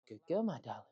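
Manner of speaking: soft, tender praise to a dog; gentle praise. Shown as a demonstration. Owner praising dog that stays, gentle praise. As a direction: drop to a quiet, affectionate coo.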